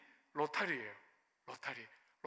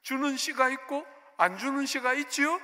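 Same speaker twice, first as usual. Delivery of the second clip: raised, louder accusing question; defiant complaint; 6 semitones higher, 6 dB louder than usual. Retold or imitated. Pastor protesting to God about being passed over, defiant. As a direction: challenge God with mock grievance. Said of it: "삐딱해져가지고".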